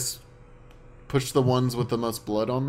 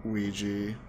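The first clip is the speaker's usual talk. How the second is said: monotone; 4 dB quieter than usual. Acted. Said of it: "just monotone".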